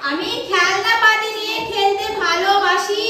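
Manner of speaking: slow, clear full sentence; slow modelling. Shown as a demonstration. Teacher repeats the full sentence for the child, slowly. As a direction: lay out each word for the child. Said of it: "তাহলে".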